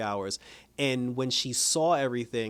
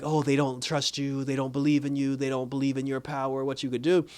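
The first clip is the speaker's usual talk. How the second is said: put-on mysterious accented voice. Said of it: "because of the accent".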